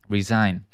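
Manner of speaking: "resign" with its S said as Z; Z sound. Shown as a demonstration. Teacher confirming for students, "resign" with Z sound. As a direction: say "resign" plainly with a voiced Z. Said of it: "we say it with the Z sound".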